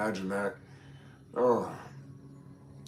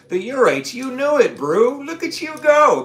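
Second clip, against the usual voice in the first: high, loud delighted cheering; excited cheer; 13 semitones higher, 10 dB louder, slower than usual. Real, not acted. Streamer cheering on Brew, loud high excitement. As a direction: gush over the pet, a lot higher and louder.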